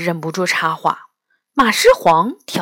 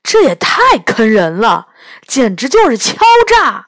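a bit louder, outraged complaint; indignant yelling; 4 dB louder than usual. Acted. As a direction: cry foul at the price. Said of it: "杨永乐大声嚷嚷着". (气愤地大声嚷嚷)

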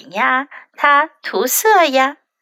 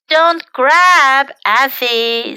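firm mother's warning, a bit louder; mother tells Effie not to grab, firmly; mild scolding; 3 dB louder, much slower than usual. Acted.

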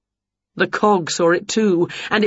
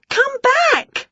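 mild shout. A narrator's reading. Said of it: "shouted Winnie".

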